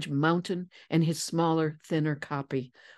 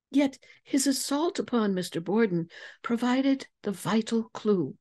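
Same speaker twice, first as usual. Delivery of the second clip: put-on a light, slightly higher young woman's voice; Lizzie voiced; 4 semitones higher than usual. Lizzie explains her deduction.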